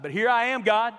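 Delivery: sarcastic. Retold or imitated. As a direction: throw it at God with sarcasm.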